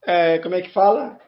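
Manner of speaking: allergy-roughened honking voice. Real, not acted. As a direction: talk through an allergy-worn honk. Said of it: "peço desculpa pela voz de, de Pato Donald".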